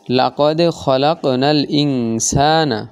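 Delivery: slow লাকদ খলাকনাল ইনসানা with light normal qalqala; connected recitation. Shown as a demonstration. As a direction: recite slowly with a light echo. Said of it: "মিলিয়ে পড়ার ক্ষেত্রে স্বাভাবিক কলকলা".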